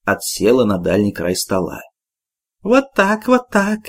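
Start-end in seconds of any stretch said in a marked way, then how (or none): 2.6-3.8 put-on high, mumbled words of a toothless old woman; old woman mumbling. A narrator's reading. Old Shura mumbling at the table in a high voice. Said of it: "прошамкала Шура".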